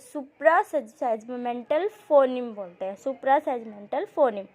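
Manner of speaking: slow, deliberate term for notes; dictating a key term; slow dictation. Shown as a demonstration. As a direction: spell it out slowly for the class.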